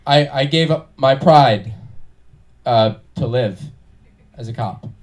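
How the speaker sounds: put-on young cop scene reading; earnest amateur cop; bad acting. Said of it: "I was now a young cop".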